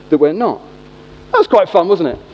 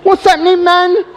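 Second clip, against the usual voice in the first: much higher, loud hammed-up slang shout; fake cool guy; 10 semitones higher, 3 dB louder, slower than usual. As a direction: try too hard to sound hip to a teen. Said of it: "and I go, like this".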